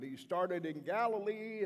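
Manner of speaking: loud, angry cry of Galilee; shouted Galilee accusation; yelled accusation. Retold or imitated. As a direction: throw Galilee at him as a charge. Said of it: "They continued yelling at me".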